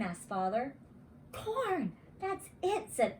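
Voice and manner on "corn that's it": high, excited realization; sudden inspiration. A narrator's reading. Arthur at dinner suddenly inspired, excited. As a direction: blurt it as the idea hits.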